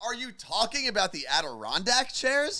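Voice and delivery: mock delivery, as loud as possible, high-pitched. Retelling the speaker's own question, asked as loud as possible. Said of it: "like as loud as I possibly can".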